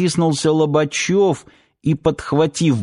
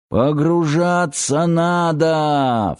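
drawn-out shout, higher; slow shout; 4 semitones higher, slower than usual. Acted. Captain to Тарас on deck, slow, drawn-out shout. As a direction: call it out slow across the noise. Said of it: "закричал Тарасу Лобачёв".

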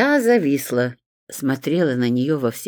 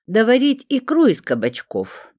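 grumbling; 9 semitones higher, 4 dB louder than usual. A narrator's reading. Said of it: "проворчала".

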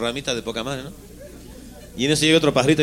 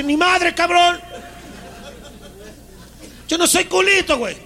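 shrill squeaky protest; slower than usual. Acted. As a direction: squeal your denial. Little bird protests indignantly.

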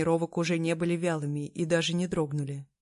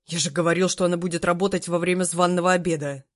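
louder, irritated rebuke; 6 dB louder than usual. Acted. Emperor scolding his servants, irritated and louder. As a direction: snap it out, annoyed. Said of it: "Несколько раздражённо бросил Вэйдун".

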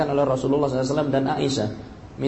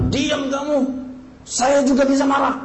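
angry husband; 12 semitones higher than usual. Retold or imitated. Husband snapping at his angry wife, mock angry. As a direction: bark it back like a fed-up husband.

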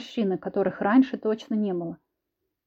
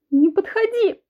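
high, loud shriek; 12 semitones higher, 6 dB louder, slower than usual. A narrator's reading. Wife shrieks at the husband to stay away. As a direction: shriek to keep him away. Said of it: "взвизгнула".

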